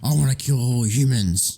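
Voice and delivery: slow, eerie robot monotone; slow and cold, like a menacing robot; creepy robot voice. Retold or imitated. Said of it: "she was like".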